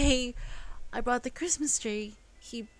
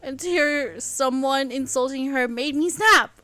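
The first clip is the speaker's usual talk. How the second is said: higher, louder impassioned defence; heated outburst; 6 semitones higher, 9 dB louder than usual. Acted. Elle justifying her anger to James, heated. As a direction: defend her mother fiercely.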